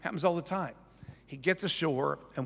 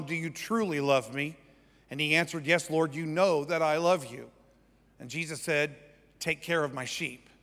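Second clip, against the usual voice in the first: measured, unhurried Bible reading; scripture reading; 2 semitones lower than usual. Acted. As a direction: read scripture aloud with even weight. Reads scripture aloud.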